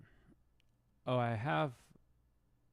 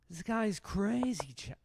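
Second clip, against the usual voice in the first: whisper; 11 semitones higher, 7 dB louder than usual. Retold or imitated. Impression whispers to chat.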